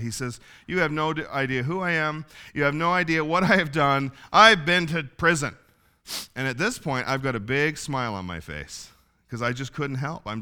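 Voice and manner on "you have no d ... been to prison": lightly imitated tipsy confession, building louder; half-drunk man. Half-drunk man confessing his past to preacher, lightly imitated. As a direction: build to a loud, slowed last line, a touch drunk. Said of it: "he was kinda half drunk".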